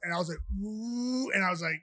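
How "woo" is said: drawn-out high "woo"; imitated high woo. Fighter reacting to his swollen eye, imitated high woo. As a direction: let out a long, high mock woo.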